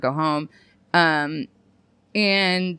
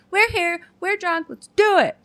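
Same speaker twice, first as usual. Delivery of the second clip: mock drunk bravado; 9 semitones higher than usual. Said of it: "alcohol always made it a lot easier being like".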